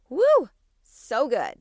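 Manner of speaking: a loud, drawn-out, gushing whoop; excited woo. Real, not acted. Host gushing to listeners about affirmations, in an excited whoop. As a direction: let the joy burst out, slow and loud. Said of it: "As you can hear the excitement in my voice".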